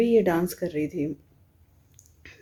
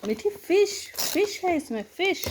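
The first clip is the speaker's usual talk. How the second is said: high, soft cooing; 11 semitones higher, 4 dB quieter than usual. Real, not acted. Showing fish toy to baby.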